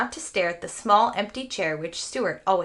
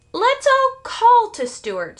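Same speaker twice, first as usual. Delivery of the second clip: urgent; 13 semitones higher, 7 dB louder, slower than usual. A narrator's reading. Mother urging family to call.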